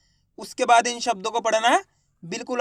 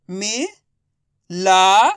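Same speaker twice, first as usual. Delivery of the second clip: direct syllable reading; 5 dB louder, much slower than usual. Shown as a demonstration. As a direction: sound out मि, ला, प with pauses. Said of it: "direct मात्रा का उच्चारण करके पढ़ेंगे". (मि, ला, प को अलग-अलग रुककर पढ़ें)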